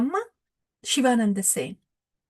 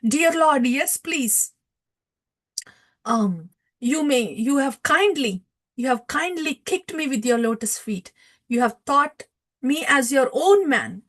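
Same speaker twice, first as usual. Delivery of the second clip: acted devotee's plea, slightly raised; offering prayers; 3 semitones higher than usual. Shivananda Sen prays to the Lord who kicked him, pleading. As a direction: plead earnestly, as if praying. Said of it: "he offers prayers to Nityananda Ram".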